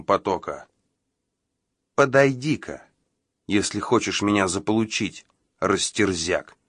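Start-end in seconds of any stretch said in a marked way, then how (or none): 1.9-6.6 contemptuous. Acted. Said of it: "вкладывая в голос всё накопленное презрение".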